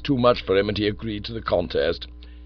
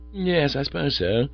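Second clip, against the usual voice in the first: doubtful; 5 semitones higher than usual. Acted. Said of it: "I said doubtfully".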